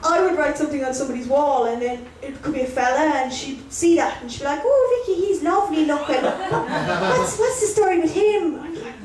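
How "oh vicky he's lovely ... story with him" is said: high-pitched, gushing nosy mam; nosy mother. Retold or imitated. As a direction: coo over a daughter's possible boyfriend. Mother's nosy Facebook comment, acted.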